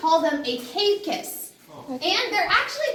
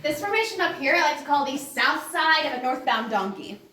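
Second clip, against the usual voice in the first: cave echo; 5 dB louder than usual. Real, not acted. Guide joking to tour group.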